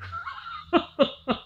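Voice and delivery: high burst of laughter; a quick high laugh at dad's words; real laugh. Real, not acted. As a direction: laugh at his own story. Laughs after the punchline quote.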